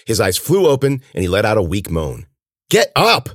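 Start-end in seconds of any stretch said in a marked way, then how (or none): 2.7-3.3 high, loud command; urgent yell. Acted. Cece rousing moaning Ben, urgent shout. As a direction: yell it to rouse him. Repeated urging to injured friend.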